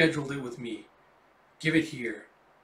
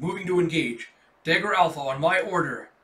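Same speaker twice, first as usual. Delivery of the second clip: raised command voice; barked order; 2 semitones higher, 6 dB louder than usual. Acted. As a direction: call the squad to attack. Soldier giving commands in combat.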